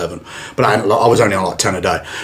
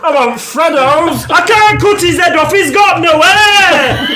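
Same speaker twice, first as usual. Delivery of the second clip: high, loud, drawn-out Northern English yelling; cartoonish shouty Northern English voice; Northern English accent; 14 semitones higher, 3 dB louder, much slower than usual. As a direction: holler it in a hammed-up Northern accent. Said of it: "every accent I've done so far".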